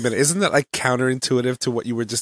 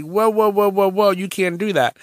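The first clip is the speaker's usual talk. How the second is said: a lightly voiced parent stepping in; mock alarmed parent; 9 semitones higher than usual. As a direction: rush in to stop it. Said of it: "the other one were like".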